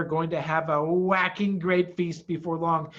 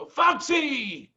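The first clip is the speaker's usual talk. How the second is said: higher, eager call of a name; light up on seeing a friend; cry of recognition; 9 semitones higher, 4 dB louder than usual. A narrator's reading. Badger recognizing Mister Fox, eager cry. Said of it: "cried Badger".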